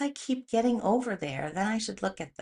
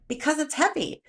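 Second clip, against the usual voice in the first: high, louder exasperated excuses; annoyed complaint; 5 semitones higher, 3 dB louder than usual. Retold or imitated. Complaining to the trainer that the weight is too heavy, annoyed. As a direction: whine the excuses, fed up. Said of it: "And I'm so annoyed".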